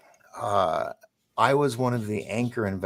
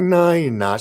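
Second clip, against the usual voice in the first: sharp, higher and louder no way; disbelieving retort; 8 semitones higher, 8 dB louder than usual. Retold or imitated. Telling his aunt she can't be serious, incredulous and loud. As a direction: blurt it out in disbelief. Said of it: "And I was like".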